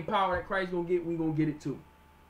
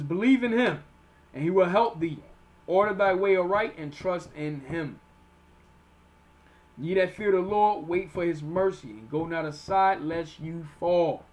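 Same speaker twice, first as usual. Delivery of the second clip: slow, emphatic Bible reading; measured, forceful preacher reading; scripture reading; 4 dB louder, slower than usual. Acted. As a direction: proclaim each clause, letting endings stretch. Reads scripture aloud.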